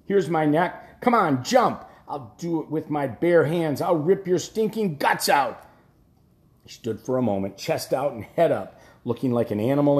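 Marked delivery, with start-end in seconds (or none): 0.0-5.6 put-on drunken raging challenge. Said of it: "roar a string of curses".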